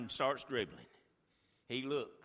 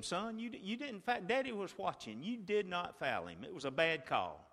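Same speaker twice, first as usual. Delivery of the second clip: softer, gentle reassurance; comforting son; 5 dB quieter than usual. Retold or imitated. Father comforting his crushed son, tender and soft. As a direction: hold him and reassure. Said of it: "I tried to convince him".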